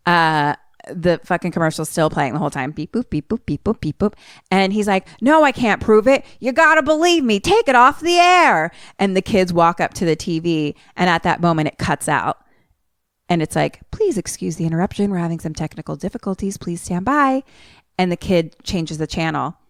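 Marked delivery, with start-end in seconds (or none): 2.7-4.1 toy-like mimicked bleeps; imitated beeps. Imitating the commercial's electronic tune. 5.2-8.7 high, desperate mock plea; acted frantic insistence; retold yelling. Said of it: "he just is yelling". 13.9-17.4 quick, even stand-by notice; brisk broadcast apology; imitated TV announcement.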